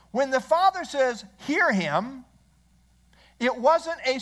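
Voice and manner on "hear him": higher-pitched, lightly commanding quote; clear command. Acted. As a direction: give it as an order, not a suggestion. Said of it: "It was clearly a command from Almighty God".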